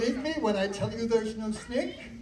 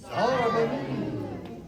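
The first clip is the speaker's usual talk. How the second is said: magic word; 3 semitones higher, much slower than usual. Acted. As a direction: stretch the magic word out slowly like a spell.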